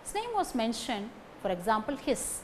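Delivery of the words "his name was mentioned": "His" reduced and unstressed; weak "his". Shown as a demonstration. Teacher showing pronouns in weak form, unstressed "His". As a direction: slip past "His" onto the name. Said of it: "Pronouns also do not take stress".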